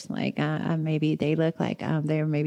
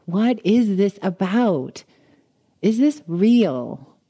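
contemplative; 3 semitones higher, 4 dB louder, slower than usual. Retold or imitated. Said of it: "I was very contemplative".

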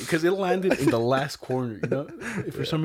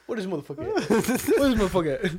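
mock angry search; 7 semitones higher than usual. Retelling hunting for his friend, mock angry calling. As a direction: storm around calling for him.

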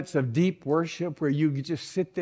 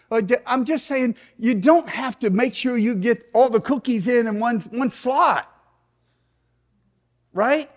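raised-pitch, insistent sermon voice; animated preaching; 6 semitones higher than usual. Real, not acted. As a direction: press the point on the congregation.

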